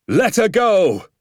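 high, long-drawn call to launch; father's triumphant release cry; excited cry. A narrator's reading. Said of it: "he cried".

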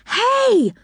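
high, drawn-out exclamation; alarmed call. A narrator's reading. Rick on the runaway train calls out, alarmed.

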